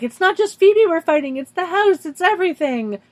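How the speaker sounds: urgent and worked up; agitated. Retold or imitated. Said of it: "Piper's like".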